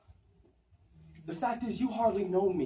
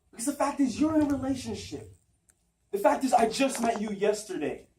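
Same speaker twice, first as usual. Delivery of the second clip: higher, urgent acted argument; emphatic, agitated stage pleading; insistent protest; 4 semitones higher than usual. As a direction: press each fact on a lover. Monologue, insisting on the facts.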